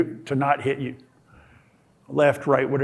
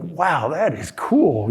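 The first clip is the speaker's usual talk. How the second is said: slow, drawn-out wow; mild awe; slower than usual. Retold or imitated. Alone in the ocean after one swipe, slow mild awe. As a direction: savor it like a small wonder. Marveling after cutting the lines.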